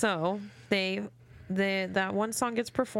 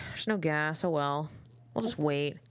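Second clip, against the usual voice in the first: mock indifference. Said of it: "They're literally like".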